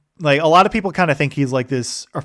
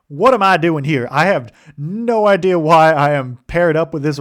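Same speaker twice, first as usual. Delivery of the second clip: put-on higher, louder, baffled young recruit voice; flustered young officer; 4 semitones higher, 5 dB louder than usual. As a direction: play Eli, out of his depth, half laughing. Eli voiced, overwhelmed recruit.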